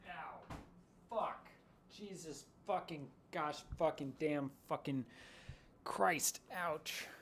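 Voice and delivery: sudden pain, swearing through it; pained cursing. Real, not acted. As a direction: yelp and curse after hurting yourself. Hurts self while fetching greens.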